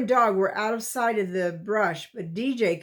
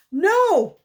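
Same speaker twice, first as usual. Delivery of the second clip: sharp, loud, high no; a sudden high bark of warning; 10 semitones higher, 7 dB louder than usual. A narrator's reading. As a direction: stop him cold with one word. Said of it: "D J repeated".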